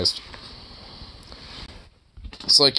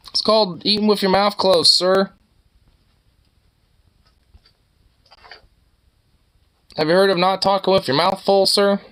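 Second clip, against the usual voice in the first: mock prissy scold; 9 semitones higher than usual. Mock etiquette lecture to animal.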